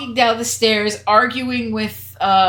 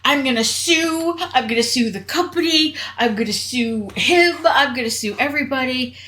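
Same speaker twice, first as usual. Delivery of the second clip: mock freak-out; 3 semitones higher than usual. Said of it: "Gwen starts to freak out".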